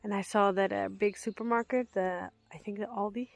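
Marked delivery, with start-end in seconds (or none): 2.5-3.3 whisper. Real, not acted. Whispered aside.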